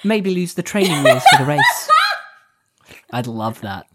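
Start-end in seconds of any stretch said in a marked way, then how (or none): 0.0-1.9 imitating dub Mia. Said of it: "English, dub Mia".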